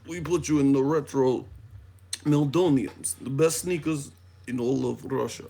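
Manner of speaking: put-on Russian sales pitch; playful mock-Russian delivery; Russian accent. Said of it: "working on my Russian accent".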